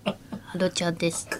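soft, nasal, breathy imitation of a singer. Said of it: "何その鼻声で".

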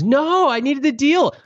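high, slow, sheepish mock Rachel; a hammed-up thrifty millionaire. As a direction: play her insisting on the bargain, drawn out. Rachel defending waiting in line.

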